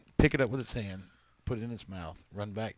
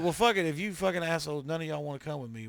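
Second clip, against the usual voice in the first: cursing at cats; 5 semitones higher than usual. Retold or imitated. Man retelling how he yelled at the cats that ran, mock-angry shout. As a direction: yell at the cats in mock anger, then let it drop.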